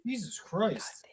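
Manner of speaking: breathy whispered disbelief; exasperated whisper. Real, not acted. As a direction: whisper it under your breath. Reacting to name mistake.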